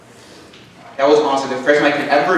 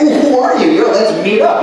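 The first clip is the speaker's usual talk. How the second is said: put-on high, loud excited kid reaction; bubbling over, pitched up; 7 semitones higher, 4 dB louder than usual. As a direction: re-enact an eager yes to a secret admirer. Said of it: "I was super excited".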